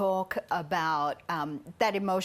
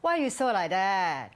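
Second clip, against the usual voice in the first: put-on playful Singlish accent. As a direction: tease it in Singlish. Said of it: "put on my Singlish cap".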